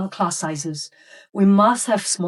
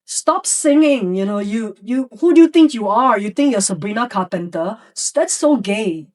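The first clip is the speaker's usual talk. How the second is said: mock student yell; 3 dB louder than usual. Classmate mocking the singing boy in a mild mock yell. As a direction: heckle the singer across the room. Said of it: "another student of yours yells at your student".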